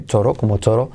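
"toro" with a Spanish tapped R; soft R. Shown as a demonstration. Teacher likening total to Spanish, "toro" with soft R. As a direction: compare it plainly to Spanish "toro". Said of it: "T como R suave".

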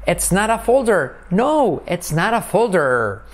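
high emphatic denial. Shown as a demonstration. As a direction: deny it with a high lifted No. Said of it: "que es una negativa".

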